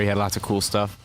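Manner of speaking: talking through hiccups; hiccuping between words. Real, not acted. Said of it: "I got the hiccups".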